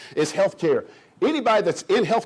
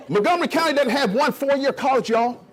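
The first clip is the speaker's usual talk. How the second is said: higher, laughing restatement with a push on Montgomery; laughing emphasis; 7 semitones higher than usual. Real, not acted. To the business crowd, laughing emphatic disbelief.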